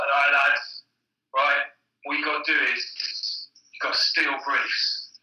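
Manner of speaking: lightly put-on Cockney geezer; Cockney accent. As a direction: do the boss in a mild Cockney accent. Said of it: "giving him a Cockney accent".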